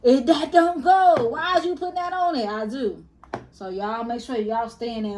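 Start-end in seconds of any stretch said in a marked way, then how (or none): 0.0-2.5 yelling at the TV. Retold or imitated. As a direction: holler at a bad seasoning job. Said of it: "I be yelling through the camera".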